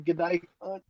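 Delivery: lightly put-on Australian accent, easygoing; a teasing hint of Australian twang; mock Australian accent. Joking about a recorded call, mock Australian accent. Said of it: "in an Australian accent".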